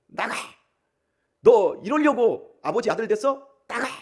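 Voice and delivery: loud, angry fatherly yell.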